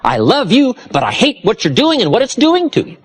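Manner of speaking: put-on high, emphatic parent to children; making it clear. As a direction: stress "love" and "hate" high and firmly. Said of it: "You gotta make it clear to your children".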